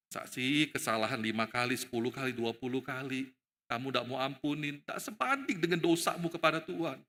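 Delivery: low, gently questioning; Yesus. Acted. Jesus questioning Peter's unforgiveness, low gentle reproof. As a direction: reason softly with a disciple. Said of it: "Yesus itu pengen ngomong dengan Petrus".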